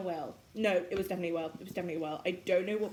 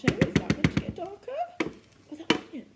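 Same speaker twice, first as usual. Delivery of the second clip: loud; 12 semitones higher, 10 dB louder than usual. Real, not acted. Loud puzzled question.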